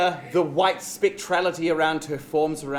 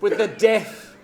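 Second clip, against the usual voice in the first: villain voice; 2 semitones lower than usual. Acted. Queen bee villain speech.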